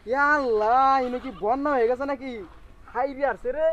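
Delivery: loud, shocked exclamation. Acted. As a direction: cry out in alarm. Shocked at the flood.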